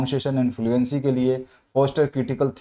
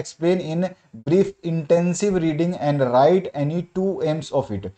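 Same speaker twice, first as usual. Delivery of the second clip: slow, word-by-word question dictation; teacher dictating a question; dictation reading; 3 semitones higher, much slower than usual. Acted. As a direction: read the question out slowly so students can write it. Dictates exam question slowly.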